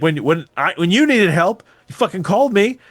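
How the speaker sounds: half-acted furious accusation; imitating a yell. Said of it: "starts yelling at his".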